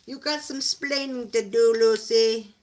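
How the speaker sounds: very loud sitcom husband impression; Ricky Ricardo. Owner mock-scolds her dog Lucy, booming sitcom husband impression. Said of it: "In my best Ricky Ricardo voice".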